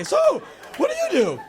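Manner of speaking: very high, loud forced small talk; awkward question. Acted. Boy with nothing to say to a girl, strained. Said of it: "you have nothing to say".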